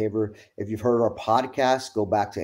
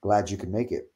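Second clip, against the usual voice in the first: very cool; 4 semitones lower, 4 dB quieter than usual. Retold or imitated. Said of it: "very cool".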